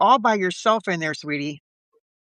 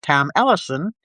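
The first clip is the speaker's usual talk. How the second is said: measured recap read aloud; narrator's recap with deliberate pauses; story narration; 2 semitones lower than usual. Acted. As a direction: read a detective serial's story-so-far to listeners.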